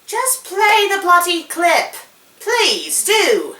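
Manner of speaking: high, loud and slow demand; exasperated demand. Pretend. Host demanding the clip play at last. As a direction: push it out, fed up. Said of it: "again demanding clip".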